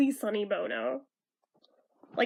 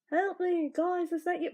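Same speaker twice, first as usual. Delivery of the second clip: put-on Liverpool accent, raised a little; 1960s Liverpool pop-star accent; 6 semitones higher than usual. Davy calling from a suitcase, in a mild Liverpool accent. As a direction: call for help in a light Liverpool lilt. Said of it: "suddenly sounding like a Liverpool pop star".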